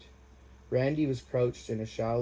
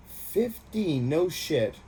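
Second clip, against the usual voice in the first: surprised; 6 semitones higher, 3 dB louder, much slower than usual. Acted. Sergeant learns his age.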